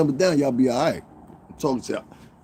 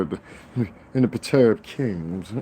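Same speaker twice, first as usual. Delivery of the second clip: mock highbrow. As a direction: draw it out in put-on learned diction. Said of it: "I can talk like that too".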